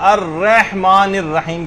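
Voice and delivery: الرحمن الرحیم with a stretched reh for rah; common mistake. Shown as a demonstration. Teacher showing people's error, mispronounced recitation. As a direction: lengthen an e sound in الرحمن. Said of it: "یہ بھی غلطی کر دیتے ہیں".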